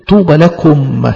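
drawn out, deliberate; slow solemn echo. Shown as a demonstration. Preacher repeating the blessing, slow and solemn. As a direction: repeat it slowly. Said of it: "repeated blessing".

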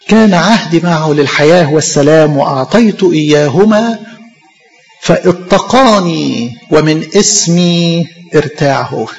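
slow, weighty reading of the verse; solemn scripture reading. Acted. Preacher reading Malachi to the congregation, slow and solemn. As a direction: dwell on each word of the verse.

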